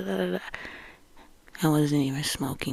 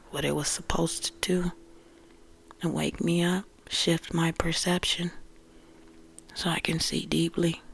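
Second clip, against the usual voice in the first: whisper. Real, not acted. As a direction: hush it like a secret. Speaks softly to the camera.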